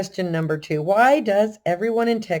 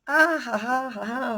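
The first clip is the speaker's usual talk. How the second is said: imitating mocking laughter; 8 semitones higher than usual. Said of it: "Everybody is just".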